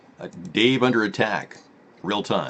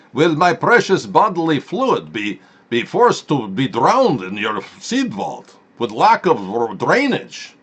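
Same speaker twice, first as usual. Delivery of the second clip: mock dramatic voice; 3 semitones higher, 4 dB louder, slower than usual. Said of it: "talk in various dialects".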